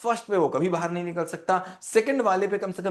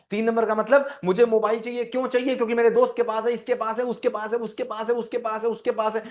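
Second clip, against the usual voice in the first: put-on whiny kid; 5 semitones higher than usual. Child wanting phone like friends.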